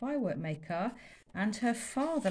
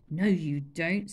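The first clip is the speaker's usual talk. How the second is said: put-on slow, firm boy; firm contradiction; 2 semitones lower, 4 dB louder, slower than usual. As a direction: overrule him. Chulak contradicts.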